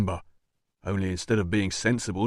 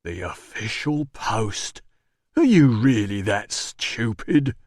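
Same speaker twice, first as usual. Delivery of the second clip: scornful disbelief; much slower than usual. Acted. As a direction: drag it out in contempt. Bassus berates boss.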